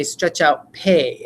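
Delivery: very slow, drawn-out "pay"; slow teacher prompt; stretched-out word. Shown as a demonstration. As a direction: stretch it for the kids. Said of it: "And then I'll say".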